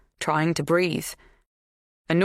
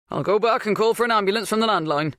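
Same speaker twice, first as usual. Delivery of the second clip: raised, higher-pitched voice; calling out; 6 semitones higher, 3 dB louder, faster than usual. A narrator's reading. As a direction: call it over to the others. Bernard offers help, calling out.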